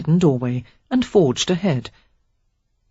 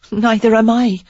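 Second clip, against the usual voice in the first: put-on wry young woman; 6 semitones higher, 5 dB louder than usual. A narrator's reading. Sarah voiced, wry.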